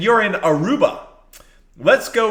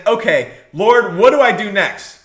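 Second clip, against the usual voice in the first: humble prayer. Acted. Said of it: "instead of saying".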